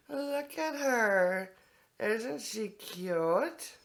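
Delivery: slow, doting coo over a cute thing. Real, not acted. Gushing over a rabbit figurine.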